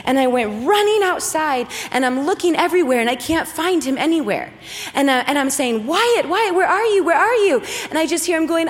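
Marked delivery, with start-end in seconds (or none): 5.9-7.6 put-on higher, urgent calling for a lost child; retold panic. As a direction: re-enact a panicking mom calling out. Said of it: "And I'm full on panic".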